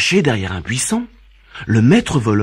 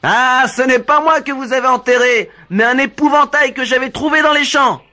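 laughing reply; 13 semitones higher than usual. Acted. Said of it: "répondit le maître voleur en riant".

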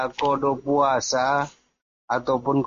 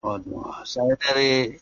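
corrupted glitchy audio; 5 dB quieter than usual. Real, not acted. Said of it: "Suaranya kecil sekali".

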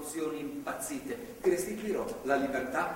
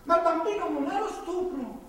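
higher, pressing plea; higher, insistent pleading; urgent pleading; 8 semitones higher than usual. Acted. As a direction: beg her urgently to keep the child. Pleading with girl not to abort.

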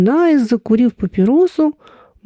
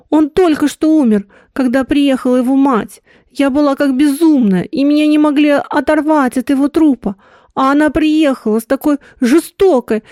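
a lightly voiced grieving woman, a little higher; 4 semitones higher than usual. Woman confessing her dead lover's suicide, lightly grieving. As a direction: let her pain show gently.

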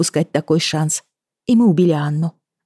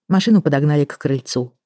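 ordinary delivery, nothing marked

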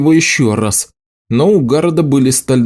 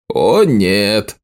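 plain reading voice

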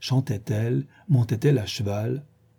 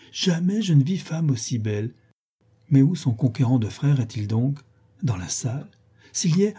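higher, breathless affected rapture; gushing Isabelle; 4 semitones higher than usual. Acted. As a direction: swoon over the sister, eager to see the brother. Isabelle gushes over Miss Tilney.

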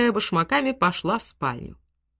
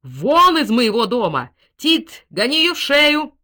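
loud, high outburst of rage; furious yell, pitched up; sudden shout; 5 semitones higher, 7 dB louder, slower than usual. A narrator's reading. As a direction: shout it as an order to throw her out. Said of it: "вдруг закричал".

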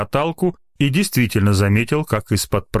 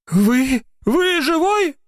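foolish question; much slower than usual. A narrator's reading. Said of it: "глупо спросил Ознобин".

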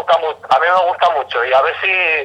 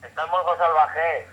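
por teléfono; 9 dB quieter than usual. Real, not acted. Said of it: "Tenemos llamada en directo".

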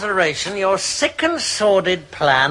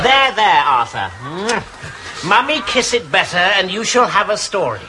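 mummy's comfort. Acted. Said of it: "I'll do it".

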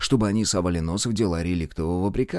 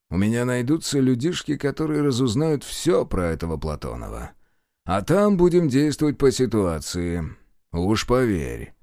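open threat. Acted. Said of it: "слышалась неприкрытая угроза".

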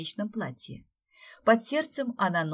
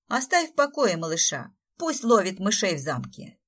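raised voice; 6 dB louder than usual. Acted. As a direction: defend the little one loudly. Raya scolds Bogdan.

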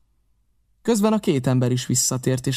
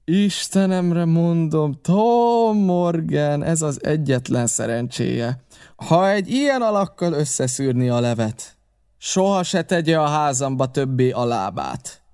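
slow, drawn-out solemn threat; emphatic, deliberate scolding; stern warning; 3 semitones higher, slower than usual. Acted. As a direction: stretch the name and bear down on him. Silver sternly warns Morgan.

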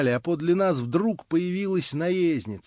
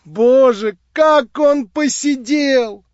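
изумлённо; 8 semitones higher, 6 dB louder, much slower than usual. Acted. Лиза восклицает, удивляясь.

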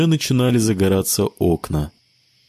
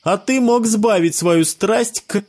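put-on high boyish voice, cut off mid-sentence; a kid scolding a friend, high; child's voice, accusing; 11 semitones higher than usual. A narrator's reading. One boy reproaches another, high child voice. Kids arguing.

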